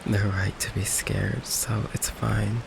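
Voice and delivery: soft, halting and resigned; quiet hurt. Acted. Vampire confessing that loved ones always leave, quiet hurt. Confesses everyone close runs away.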